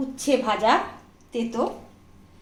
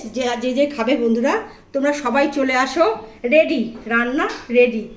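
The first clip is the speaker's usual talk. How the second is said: calling friends to eat. Real, not acted. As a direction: call everyone to the table.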